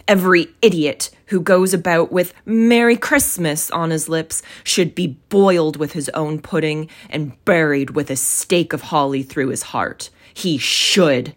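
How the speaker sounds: emphatic, mildly outraged rant; indignant. Acted. Scrooge rants about Christmas revellers, indignant. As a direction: hit the key words with indignation. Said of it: "said Scrooge indignantly".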